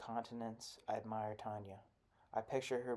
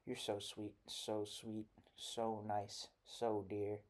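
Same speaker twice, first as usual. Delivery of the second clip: softer, sugary coaxing; mock cajoling; 3 dB quieter, slower than usual. Missus Mean coaxing the children to come closer, softly. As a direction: coax them in gently before the threat. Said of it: "threatens and cajoles".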